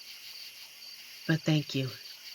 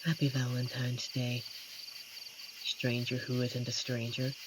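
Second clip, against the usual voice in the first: softer and lower, intimate; tender; 4 semitones lower, 9 dB quieter than usual. Acted. Werewolf wishing the stranger Happy Valentine's, tender and soft. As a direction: murmur it close and gently. Tender holiday wish after hug.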